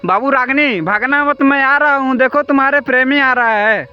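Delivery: high urgent call, chasing her; hurrying after the ghost, calling her to wait. Real, not acted. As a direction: shout after the fleeing spirit not to run.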